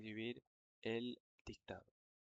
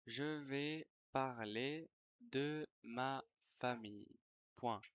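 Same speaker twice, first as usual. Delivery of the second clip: dictation reread. Shown as a demonstration. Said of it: "Je vais relire la dictée".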